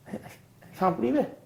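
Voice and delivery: high, slow, teary imitation of a mate; hammed-up tearful voice, pitched high; mock crying. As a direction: play the welling-up friend, half in jest. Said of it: "He starts crying".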